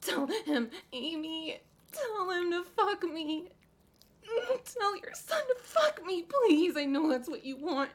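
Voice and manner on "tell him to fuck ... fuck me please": high tearful begging; much higher, crying plea. Acted. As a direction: beg through sobs. Desperate begging.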